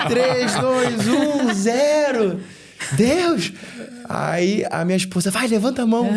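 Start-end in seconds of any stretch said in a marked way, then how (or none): 0.1-2.4 high, laughing, slowing the last count; mock suspenseful countdown, giggling. 3.0-3.5 mock desperate cry. Retold desperate cry to God. 5.3-6.1 high, lightly voiced urging wife; husband retells his wife hissing at him in church, mock urging. Wife's urging retold in voice.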